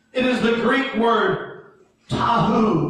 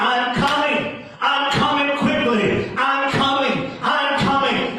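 building proclamation. Acted. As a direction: hammer the promise harder each time. Preacher voicing Jesus, building.

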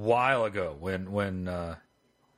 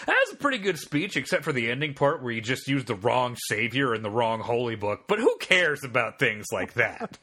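feigned approval, slowing on the dismissive end; retold sarcastic teacher. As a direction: imitate a teacher's breezy sarcastic verdict. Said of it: "What he did say was".

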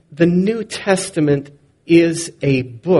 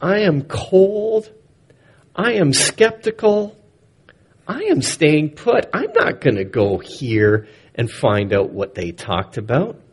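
grumpy shepherd. Pretend. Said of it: "they could have said".

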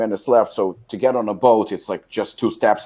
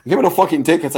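re-enacted heated order, pitched up; retold irate outburst; angry demand; 6 semitones higher, faster than usual. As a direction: demand it at the end of your patience. Acted threat at ticket window.

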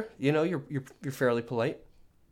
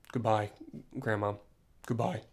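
manly goodbye; 2 semitones lower than usual. Shown as a demonstration. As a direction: say it plain and manly, no sweetness. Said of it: "In a manly way".

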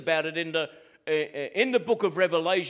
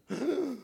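high-pitched pretend gasp of horror; mock shocked gasp; 7 semitones higher, 4 dB quieter than usual. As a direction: gasp as if scandalised. Feigns horror at word sin.

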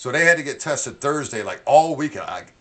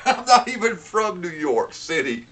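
laughing; 6 semitones higher, slower than usual. Real, not acted. Laughing at own Jersey rant.

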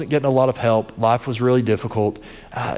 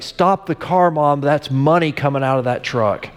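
mild mock yell; 2 semitones higher than usual. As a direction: insist as an excited boy who's spotted money. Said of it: "starts yelling at her".

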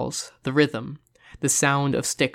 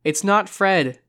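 raised, insistent correction; urgent raised voice; louder; 6 semitones higher, 4 dB louder, slower than usual. A narrator's reading. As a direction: call it out higher to be heard. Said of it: "louder this time".

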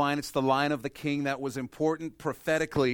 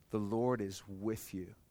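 quiet emphasis; 4 semitones lower, 7 dB quieter, slower than usual. Shown as a demonstration. Repeating the key phrase softly.

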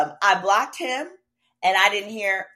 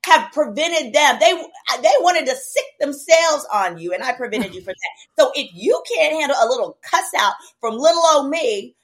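retold fierce warning; 7 semitones higher, 8 dB louder than usual. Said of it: "I said".

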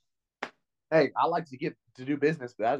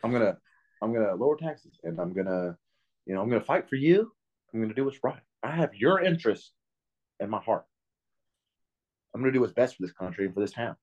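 mock politician; 3 semitones lower than usual. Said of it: "They'll say shit like that".

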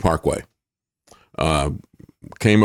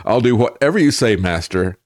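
mock pleading; 2 semitones higher than usual. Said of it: "That's their attitude".

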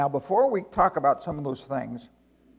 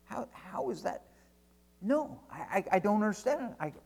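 slightly higher, faltering mock bafflement; baffled angel; 4 semitones higher, 4 dB quieter than usual. Angel puzzling over God's justice, mildly baffled. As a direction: stumble over the words, lightly voicing a puzzled angel. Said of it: "if angels talk like that".

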